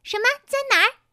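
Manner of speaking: high, startled questions; eager surprise. A narrator's reading. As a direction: fire back excited questions, voice leaping up. Fooled pony reacts to the bait. (惊喜地高声追问)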